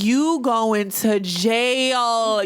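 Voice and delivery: very slow, every word stretched; slow drawn-out threat. Retold or imitated. Telling the ham thrower he's going to jail, very slow. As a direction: drag out each word like a verdict. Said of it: "I was like".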